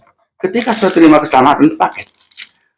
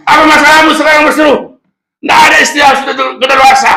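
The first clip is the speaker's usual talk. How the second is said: high, loud pulpit exhortation; impassioned, high-pitched preaching; full-force preaching; 3 dB louder, faster than usual. Real, not acted. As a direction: urge the congregation with rising force.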